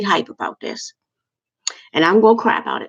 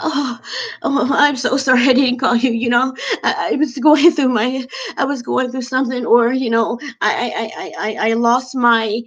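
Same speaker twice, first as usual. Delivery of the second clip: higher, mocking a friend's gushing excuses; mock flustered apology; 4 semitones higher than usual. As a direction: play the over-the-top sorry friend, pitched up. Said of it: "turns around your situation and makes it about them".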